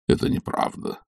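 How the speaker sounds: whispered, firm denial. A narrator's reading. Stolz quietly denies it to Olga, whispering. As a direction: drop to a whisper and deny it. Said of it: "понизив голос".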